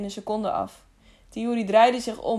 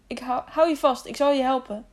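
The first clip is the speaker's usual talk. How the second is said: raised, urgent rescuer's voice; urgent reassurance; 4 semitones higher than usual. Acted. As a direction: promise help under pressure. Belooft hangende Jaro hulp. (dringend geruststellen)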